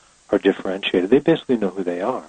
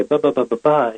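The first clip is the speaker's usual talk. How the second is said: put-on light babbling like a toddler, a bit higher; toddler babble; 5 semitones higher than usual. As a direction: babble as a small child would. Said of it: "a toddler will come up and say".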